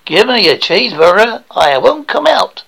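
edge closer to American, not quite there; slightly better American accent. Acted. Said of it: "starting to sound a little bit better".

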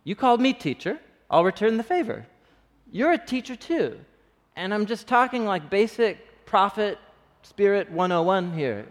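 a teacher confronting a fellow teacher; in his face. Retold or imitated. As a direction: get right in his face and push him. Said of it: "kinda gets in his face".

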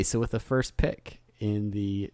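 draft announcer. Pretend. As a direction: announce the pick like a broadcaster. Announcing first draft pick.

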